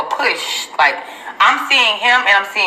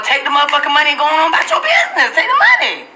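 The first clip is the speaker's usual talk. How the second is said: retold command; 10 semitones higher, faster than usual. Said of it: "And told her".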